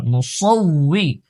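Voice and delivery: মুসৌই with a thick, full sad sound; heavy sad. Shown as a demonstration. Teacher corrects students' sad in মুসৌই, heavy pronunciation. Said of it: "সদ মোটা".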